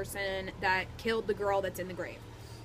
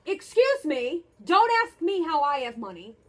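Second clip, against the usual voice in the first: indignant; 3 semitones higher, 4 dB louder than usual. Real, not acted. Indignant about money.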